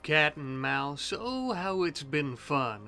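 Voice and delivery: dry mock-cheerful sarcasm; sarcastic. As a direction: say it fake-fond, dripping sarcasm. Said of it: "That was sarcasm".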